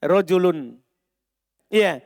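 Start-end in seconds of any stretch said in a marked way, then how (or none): 0.1-0.8 slow spaced reading; deliberate teacher demo; slow example. Shown as a demonstration. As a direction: lay out la fil baiti for students. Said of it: "Contoh tidak terpenuhi syarat".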